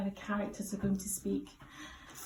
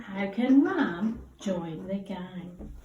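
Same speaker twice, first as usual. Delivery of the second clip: slow careful read; 2 semitones lower, much slower than usual. Shown as a demonstration. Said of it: "Have another look at that word".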